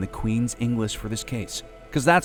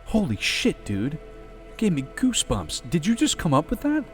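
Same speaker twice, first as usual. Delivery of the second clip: awed skeleton; 10 semitones higher, 5 dB quieter than usual. Acted. Ross awed by the performance.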